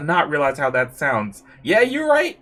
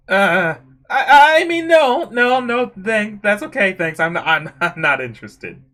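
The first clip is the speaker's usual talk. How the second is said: loud, stammering backpedal, settling down; flustered refusal; 3 semitones higher, 6 dB louder, slower than usual. Acted. Turning down the offered massage, loudly flustered.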